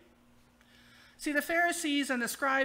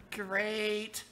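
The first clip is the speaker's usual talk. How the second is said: sarcastic. Pretend. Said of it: "said sarcastically in your head".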